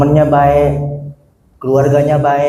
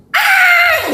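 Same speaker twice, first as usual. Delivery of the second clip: put-on piercing high baby wail, very high; mock newborn scream, much higher; imitated baby shriek. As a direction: squeal like a newborn crying. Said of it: "Gitu kan, melengking".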